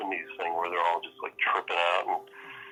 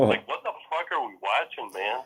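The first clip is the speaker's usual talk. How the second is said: laughing disbelief; 4 semitones higher than usual. Real, not acted.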